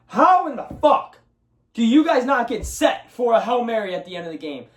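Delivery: high, incredulous angry outburst; fed-up sports fan yelling at his team; exasperated rant. Real, not acted. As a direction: demand to know how they could be so lazy. Ranting at lazy receivers.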